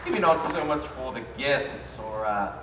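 hammed-up game host. Haunted game show host gloating over contestants. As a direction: ham it up like a wicked TV host.

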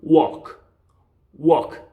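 "walk" as "wawk", the L dropped entirely; silent L. Shown as a demonstration. Teacher tells learners to forget the L, silent L. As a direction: drop the L in "walk", open aw vowel. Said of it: "L은 없다고 생각하고".

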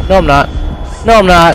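high, loud relieved shout; excited relief. Real, not acted. Realizes he survived, relieved.

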